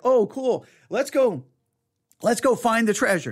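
put-on high, eager kid's voice; bouncing with kid excitement; excited kid. Kid eager to find the treasure, high excited voice.

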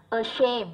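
ashamed stressed on "shamed"; second-syllable stress. Shown as a demonstration. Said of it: "âm hai". (nhấn âm tiết hai của ashamed)

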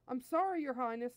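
frantic apology. Acted. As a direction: blurt an apology to an angry master. Nappa apologises to furious prince.

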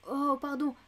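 imitating the flustered Swede in heavy accent; Swedish broken French. Old lady mimics the Swedish woman's broken accent, flustered. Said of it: "La pauvre, elle en a été toute retournée".

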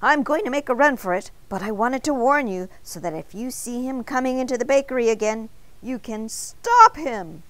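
alarmed warning. A narrator's reading. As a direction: sound the alarm, voice up and insistent. Donut warns baker in alarm.

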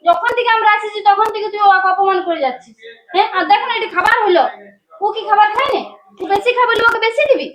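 heated, rising indignant protest; aggrieved daughter's scolding; indignant accusation. Acted. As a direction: take your mother to task, pitch climbing. Daughter accuses mother of insulting husband.

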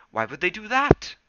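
high, loud cat voice; Smudge voice. Acted.

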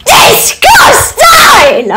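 slow, stretched "Disgusting!" shouted; hammed-up disgusted yell; drawn-out shout. Rejects each chocolate angrily.

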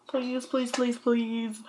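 quiet, repeated real begging; soft pleading. Real, not acted. Vlogger begging viewers for advice, soft pleading. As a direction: beg softly, please after please.

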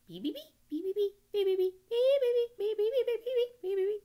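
very high, loud rapid peeping; peeping goslings. Acted. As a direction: squeak like a clutch of baby geese. Seven goslings answer the roll.

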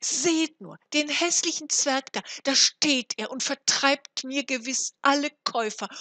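loud, high indignant call; calling to neighbours. A narrator's reading. Frau Hanne calls her neighbours to see, indignant shout. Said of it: "rief Frau Hanne ihrer Nachbarin zu".

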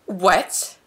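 loud, startled outburst; real shocked exclamation; outraged shock. Real, not acted. Outraged reaction to the clip.

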